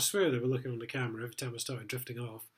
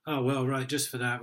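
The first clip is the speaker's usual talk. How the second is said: snotty sergeant; 6 dB louder than usual. Retold or imitated. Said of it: "desk sergeant got all snotty".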